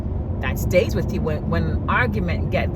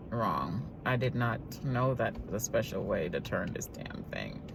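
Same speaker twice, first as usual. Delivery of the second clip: much softer, lower muttered aside; distant muttering aside; off-mic aside; 7 semitones lower, 11 dB quieter than usual. Real, not acted. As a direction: mumble to yourself off mic.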